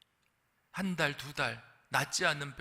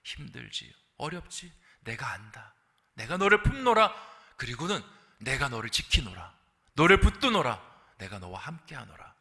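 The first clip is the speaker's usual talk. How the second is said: a hint of gentle then firm divine assurance; comfort, then declare protection; God reassuring, then proclaiming; God's voice; 3 semitones lower, 5 dB louder than usual. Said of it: "가장 먼저 해주시는 것은".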